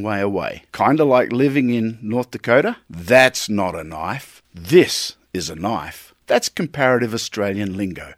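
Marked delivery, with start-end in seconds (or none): 2.9-4.4 slow, lower, dismissive That's not a knife; lightly voiced Dundee, scoffing and slow; Crocodile Dundee. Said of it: "Maybe I'm the Crocodile Dundee of coffee". 4.5-6.1 slow and lower, landing hard on This; a light Dundee boast, proud and deliberate; Crocodile Dundee. Retold or imitated. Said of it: "Maybe I'm the Crocodile Dundee of coffee".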